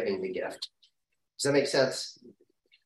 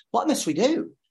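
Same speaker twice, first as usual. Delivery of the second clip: anguished cry; 8 semitones higher than usual. Acted. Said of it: "There's despair, there's anguish".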